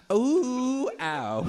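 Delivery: high falsetto werewolf howl; gay werewolf howl. Acted. Gay werewolf howling at a disco ball. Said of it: "He howl like this".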